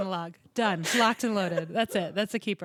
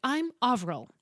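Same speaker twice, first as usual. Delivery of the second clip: imitating an Irish classmate's introduction; higher, lightly Irish self-introduction; Irish accent; 4 semitones higher, 4 dB louder than usual. Irish classmate introducing herself, Irish accent. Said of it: "was Irish and very cool".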